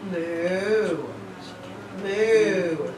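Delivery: cow moo. Pretend. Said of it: "What does a cow say?".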